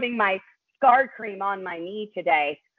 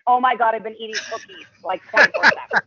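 shocked realization; 4 dB louder, faster than usual. Retold or imitated. Retold shocked realization, fast.

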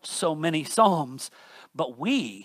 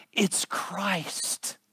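whispered answer after the build; hushed; 7 dB quieter than usual. Acted. Preacher answering his own question in a whisper. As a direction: drop to a breath on "It's Christ.". Hushed climax of sermon point.

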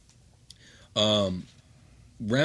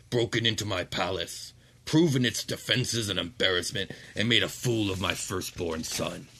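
cold archduke. Acted. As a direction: shut the argument down. Ramazal addresses party.

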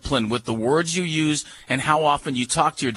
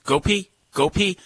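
command demo; 4 semitones higher than usual. Shown as a demonstration. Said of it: "you just stand there and go".

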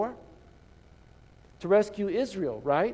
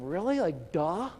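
mock the stranger as clueless, pitched up; incredulous scoff; 5 semitones higher than usual. Disciples to stranger, incredulous pitched-up scoff. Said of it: "they're like".

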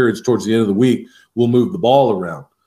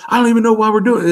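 much higher, fast, louder whiny mock player; mocking complaining player; 12 semitones higher, 4 dB louder, much faster than usual. Coach imitates a player griping at practice, high fast whiny mock. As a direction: toss off a bratty player's gripe. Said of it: "somebody would be like".

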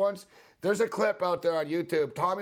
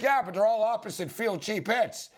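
whiny pitcher excuse; 7 semitones higher than usual. Retold or imitated. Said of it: "he's like".

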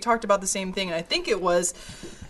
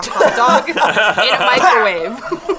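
laughing; 3 semitones higher, 7 dB louder, slower than usual. Retold or imitated.

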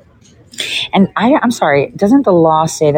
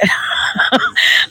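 breathy laugh; 9 semitones higher than usual. Real, not acted. Laughs about taco order.

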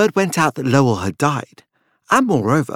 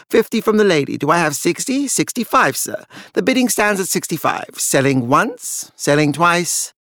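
rising, quick auction patter; auctioneer calling bids; 4 semitones higher than usual. Acted. Auctioneer taking bids from the room, brisk patter. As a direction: keep the bids rolling like a practiced auctioneer.

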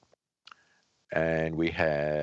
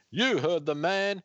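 character voice; 11 semitones higher than usual. Acted. GM voicing character in comic game.

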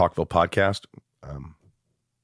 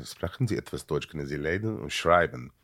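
put-on German accent; 5 dB quieter than usual.

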